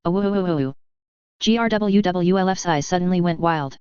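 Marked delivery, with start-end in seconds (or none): 0.0-0.7 long crying howl; wolf howl. A narrator's reading. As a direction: howl out in anguish. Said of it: "she cried".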